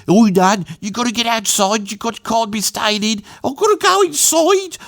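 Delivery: high-pitched Black Country patter; Black Country accent. Shown as a demonstration. Retelling the air raid joke as the comedian did, Black Country accent. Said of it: "he said it in a black country accent".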